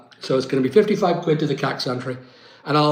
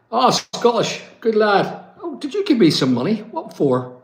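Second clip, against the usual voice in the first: higher, delighted; pleased surprise; 6 semitones higher than usual. Real, not acted. Viewer sends him money, he reacts with pleased surprise. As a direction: react happily to the surprise gift.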